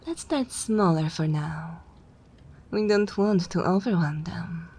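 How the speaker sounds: vampire giving orders, firm and projected; commanding vampire. Acted. Vampire sending new thrall for wine, firm and commanding. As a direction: direct a servant with easy authority.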